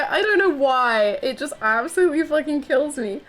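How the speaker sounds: giggling through the words; laughing. Real, not acted. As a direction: laugh while saying it. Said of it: "I was just cry laughing".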